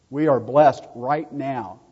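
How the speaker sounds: rising preacher's excitement; excited. Real, not acted. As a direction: preach it out with growing joy. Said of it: "I'm getting excited now".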